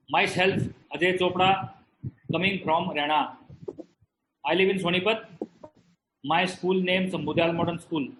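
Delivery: imitating own halting Haryanvi English; beginner's English with Haryanvi accent, phrase by phrase; old Haryanvi-accented English. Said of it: "This is how I was speaking in English".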